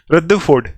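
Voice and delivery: "रदरफोर्ड" as "rudda-ford", middle r silent; foreign pronunciation. Shown as a demonstration. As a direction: drop the r before f in "रदरफोर्ड". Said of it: "ऐसे करके पढ़ते हैं बाहर वाली countries".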